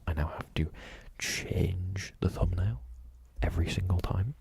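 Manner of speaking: excited grumbling that drops the whisper; overly excited. Real, not acted. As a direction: rant about YouTube thumbnails out loud. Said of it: "getting overly excited already".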